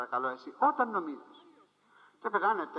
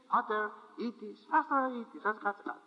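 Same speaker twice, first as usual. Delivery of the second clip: pompous prayer; 3 semitones higher than usual. Retold or imitated. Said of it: "για να προσευχηθεί θα πει".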